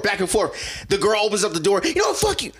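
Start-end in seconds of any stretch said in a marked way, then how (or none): 1.8-2.5 very high-pitched retold outburst; mock yelling. Girl yelling at her mom as she opens the door, mock angry. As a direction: imitate a heated screaming match. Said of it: "they're yelling at each other back and forth".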